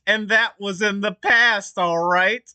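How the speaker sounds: hammed-up shouty all caps apology; mock all caps yelling. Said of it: "in, in all caps".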